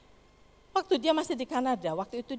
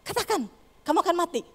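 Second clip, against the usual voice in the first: higher, pushy taunting call; 6 semitones higher, 5 dB louder than usual. Retold or imitated. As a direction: goad him to say it. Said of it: "Terus suara itu berkata". (suara iblis membujuk dan mengejek)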